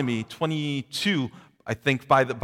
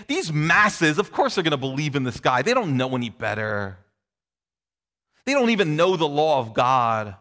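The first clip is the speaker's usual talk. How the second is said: proud Pharisees; 3 dB louder than usual. Retold or imitated. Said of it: "You hear the pride".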